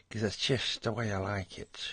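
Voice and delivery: lightly put-on goofy voice; silly put-on voice. Tired artist mid-tutorial slipping into a silly voice. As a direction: drift into a daft voice, half-hearted. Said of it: "When I start talking like that".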